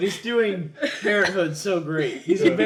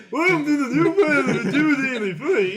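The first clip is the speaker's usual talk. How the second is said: high, loud intro cracking up with laughter; laughing retake; 9 semitones higher, 5 dB louder, faster than usual. Real, not acted. Host redoing the botched show intro, laughing.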